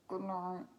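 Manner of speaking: low, soft big animal voice; deep-ish quiet creature goodnight. Acted. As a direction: drop it down like a large sleepy beast. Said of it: "all of the different animals saying good night".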